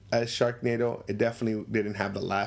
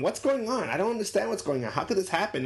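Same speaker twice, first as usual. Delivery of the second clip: confused guy; 7 semitones higher than usual. Retold or imitated.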